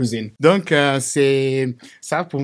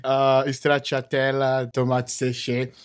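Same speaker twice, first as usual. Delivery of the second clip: Brazilian accent; slower than usual. Real, not acted. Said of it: "Il a un accent".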